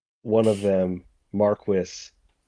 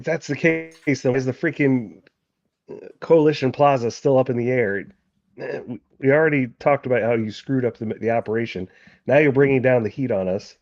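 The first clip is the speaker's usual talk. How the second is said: higher, louder, exasperated accusation; freaking out; 5 semitones higher, 5 dB louder than usual. Acted. Marquis blaming Sola for the botched operation, agitated. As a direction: argue back with the pitch pushed up. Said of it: "he's kind of freaking out".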